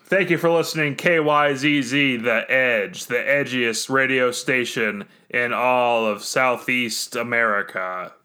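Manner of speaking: upbeat morning radio host. Pretend. Groggy player turns into a morning radio host, upbeat DJ voice. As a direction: announce it like a morning DJ. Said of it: "Is this, is this a bit".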